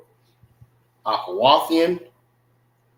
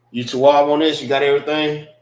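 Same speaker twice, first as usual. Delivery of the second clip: calling out; 3 semitones higher, 5 dB louder, faster than usual. Real, not acted. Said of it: "calling to the tech crew".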